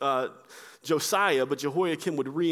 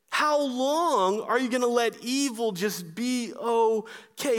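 raised, pleading cry of a desperate prophet, higher; heartbroken prophet crying out; 5 semitones higher than usual. Acted. Preacher voicing Habakkuk's heartbroken complaint to God, pleading and raised. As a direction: beg God for justice, voice lifted. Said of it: "He's crying out and he's saying".

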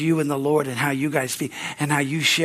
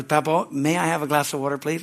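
mild, well-mannered ask; polite request. Retold or imitated. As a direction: kid asking sweetly and properly. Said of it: "you sure gotta ask right".

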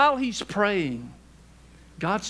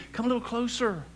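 imitated grandkid; 6 semitones higher than usual. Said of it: "they'd say".

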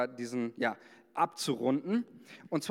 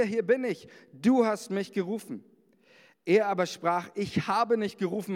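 raised, solemn Bible reading; scripture reading. Acted. Pastor reading First Samuel to the congregation, solemn. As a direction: read the verse like a proclamation.

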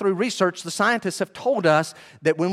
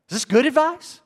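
higher, louder rising question; raised, emphatic question to the congregation; challenging question; 11 semitones higher, 4 dB louder than usual. Shown as a demonstration. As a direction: throw the question at the room.

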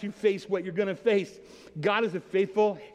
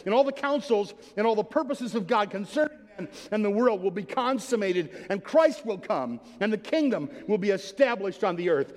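raised, ringing pulpit reading; fervent preaching; 3 semitones higher than usual. Acted. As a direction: build it like a climax from the pulpit. Reads MacArthur's quote as preaching.

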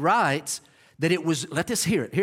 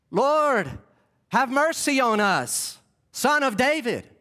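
higher-pitched but controlled call, no yelling; a tidy, measured appeal, as it didn't go; polite, restrained plea; 6 semitones higher, slower than usual. Shown as a demonstration. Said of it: "So it didn't go like".

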